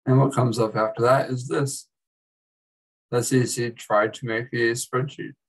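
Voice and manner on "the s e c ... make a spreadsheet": "tried" picked out from the rest of the sentence; stress on tried. Real, not acted. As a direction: lean on "tried". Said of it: "I emphasize the word try".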